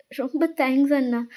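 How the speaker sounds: soft, emotional thanks; quietly overwhelmed with gratitude; tearfully grateful. Acted. Sister thanking her brother while hugging him, softly grateful. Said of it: "ஹக் பண்ணிட்டு செம்மையா அலறீங்க".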